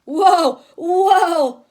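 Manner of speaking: loud, laughing whoa of surprise; playful startled laugh. Acted. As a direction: jump back, laughing in mock shock. Reacting to the loud voice.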